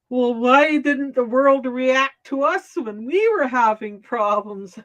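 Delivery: imitating a whiny, babyish complaint; lightly mimicked whiny grievance; whiny mock complaint. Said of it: "being really whiny and babyish about it".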